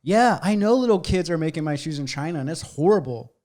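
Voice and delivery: high, laughing retelling of a comic's bit; high giggly mock confession; Joe Rogan bit. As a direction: squeak it out through laughter. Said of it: "He's like".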